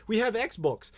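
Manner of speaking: high, lightly put-on puzzled Brit; mock-confused local offering what they have; confused Brit impression. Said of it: "They're so confused. Like".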